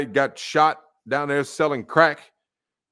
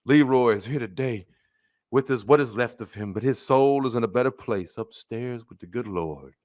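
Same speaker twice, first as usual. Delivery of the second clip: mocking funeral preacher; 2 semitones lower than usual. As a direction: parody a smooth funeral preacher. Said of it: "some man come up there and say".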